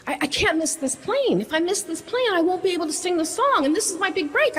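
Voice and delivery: high-pitched panicked pleading; hysterical panic. Retold or imitated. Pleading with the airline agent in hysterical panic. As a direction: beg in rising panic, words tumbling. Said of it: "I start getting hysterical".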